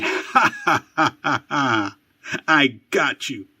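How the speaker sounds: gloating big-brother laugh, partly breathless; mocking laugh. Big brother taunts his crying little brother, mocking laugh. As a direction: taunt him through the laughter. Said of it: "stands over Nicky laughing".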